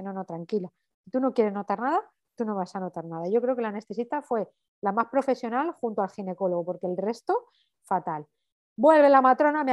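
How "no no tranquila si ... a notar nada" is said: calm reassurance. Retold or imitated. Anesthetist reassuring her in retold talk.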